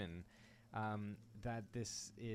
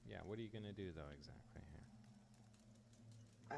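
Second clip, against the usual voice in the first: whispering; 3 semitones lower, 9 dB quieter, slower than usual. Real, not acted. GM asks quietly mid-scene.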